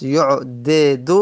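یعدد said slowly with both dals apart; teacher dwelling slowly on یعدد; slow unmerged form. Shown as a demonstration. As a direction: sound out یعدد letter by letter. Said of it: "پس".

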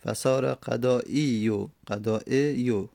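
قضایی then قضایع read slowly and carefully; slow model reading. Shown as a demonstration. Teacher to students, slowly modelling قضایع. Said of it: "ابدلت الیا الاولا همزتن".

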